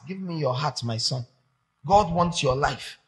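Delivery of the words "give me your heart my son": soft, quiet call to a son; hushed, loving invitation; tender voice of God. Retold or imitated. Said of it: "God wants your heart".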